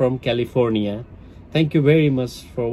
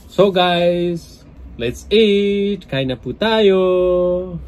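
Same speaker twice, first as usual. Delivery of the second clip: excited; 5 semitones higher, 4 dB louder, slower than usual. Real, not acted. Inviting viewers to eat.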